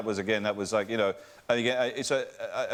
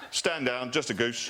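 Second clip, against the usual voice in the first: imitating officer; 3 semitones lower than usual. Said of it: "He went".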